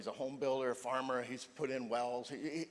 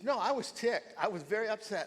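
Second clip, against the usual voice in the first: retold upset; 9 semitones higher, 6 dB louder than usual. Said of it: "She says".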